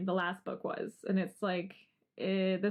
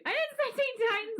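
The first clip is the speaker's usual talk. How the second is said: surprised protest; 12 semitones higher than usual. Real, not acted. Correcting a mixup, high.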